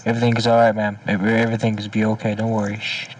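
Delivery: calm her like a pretend counselor; lightly hushed reassurance; mock soothing. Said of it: "Are you okay".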